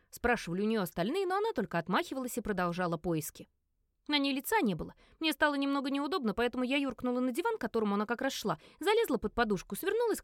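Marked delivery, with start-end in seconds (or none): none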